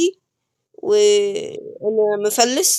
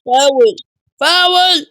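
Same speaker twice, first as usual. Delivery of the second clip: calling foul; 3 semitones higher, 5 dB louder, slower than usual. Real, not acted. Gamer calls a foul.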